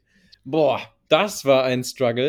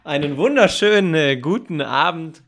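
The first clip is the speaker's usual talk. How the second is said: excited; 7 dB louder than usual. Acted. Hyped show opening.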